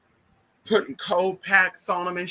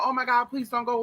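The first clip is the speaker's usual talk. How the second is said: higher-pitched mock pleading; imitated pleading; 7 semitones higher than usual. Family begging the dying aunt to stay, imitated pleading. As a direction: plead in a raised voice, retelling it. Voicing family at aunt's deathbed.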